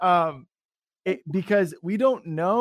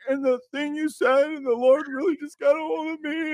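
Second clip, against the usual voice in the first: higher, gushing voice of someone touched; grateful person; 11 semitones higher than usual. Retold or imitated. A person thanking him after prayer, gushing. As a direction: play the thankful stranger.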